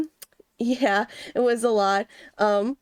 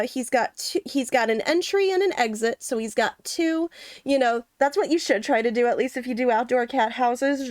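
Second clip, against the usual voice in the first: ordinary delivery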